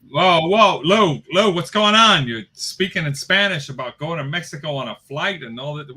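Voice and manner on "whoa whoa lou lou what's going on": surprised. Real, not acted. Startled interruption of partner.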